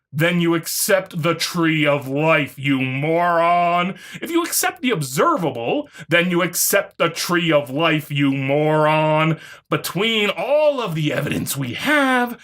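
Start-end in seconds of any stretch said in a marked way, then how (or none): 2.6-4.0 slow, low scornful drawl; contemptuous insult. Real, not acted. Rebutting the opponent with a slow scornful insult. 8.1-9.4 slow, low scornful drawl; contemptuous insult. Real, not acted. Rebutting the opponent with a slow scornful insult.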